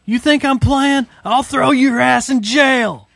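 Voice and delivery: slow, tough, threatening bailiff; stern bailiff. Retold or imitated. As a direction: menace them slowly like a tough officer. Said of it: "He goes".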